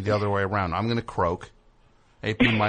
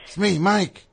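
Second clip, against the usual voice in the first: mock screaming name; 7 semitones higher, 4 dB louder, much slower than usual. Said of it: "A P Mike would be screaming my name".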